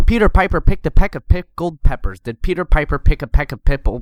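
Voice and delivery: loud popped Ps, no pop filter; popping plosives. Shown as a demonstration. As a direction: blast every P into the mic. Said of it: "Versus this".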